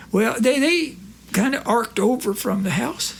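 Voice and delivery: Corky's voice. Retold or imitated. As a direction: play the innocent old pal.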